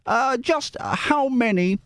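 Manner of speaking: high, hammed-up Australian-Cockney accent; Dick Van Dyke Cockney. Reader voices a letter from Chris, hammed-up Cockney. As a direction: put on an embarrassingly bad musical-chimney-sweep Cockney. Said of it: "kind of Dick Van Dyke".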